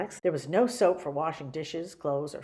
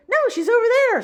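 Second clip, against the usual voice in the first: shout; 11 dB louder than usual. Acted. Witch chasing.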